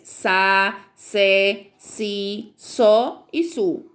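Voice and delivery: sa se si so su with a sharp S; syllables with S. Shown as a demonstration. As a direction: hiss each S clearly, slowly. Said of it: "vai ler com o som do S". (sílabas com som de S)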